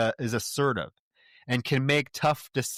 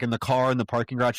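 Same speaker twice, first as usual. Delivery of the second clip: ordinary talk, nothing marked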